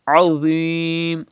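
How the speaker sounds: "Azim" with a heavy dh and long ee; thick Dha. Shown as a demonstration. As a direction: darken the middle of "Azim". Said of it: "read with thicker voice".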